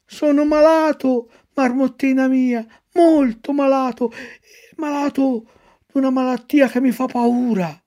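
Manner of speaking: put-on high, fretful little-boy puppet; a scared puppet pleading with the marmot; worried puppet. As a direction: whine about the illness. Pinocchio's complaint.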